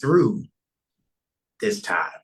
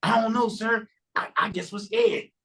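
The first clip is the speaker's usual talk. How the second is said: mock timid self; 10 semitones higher than usual. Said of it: "So I said".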